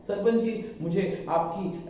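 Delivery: halting, slowing as the words stick; faltering speech. Acted. Ramu nervously addressing his beloved's father, faltering. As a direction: falter and drag out the request. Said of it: "अटक अटक के बात करना".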